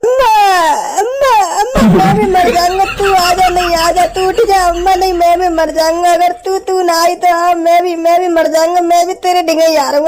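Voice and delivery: overdone mock grief, calling out to the dead mother; a comic fake lament, theatrically wailed; hammed-up wailing. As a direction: ham up the mourning, wailing "अम्मा". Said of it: "acting का तो award मिलना चाहिए".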